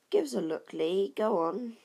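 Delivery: put-on excited boy pressing to see the box; eager call. A narrator's reading. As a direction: urge him on loudly. Crowd urging the boy.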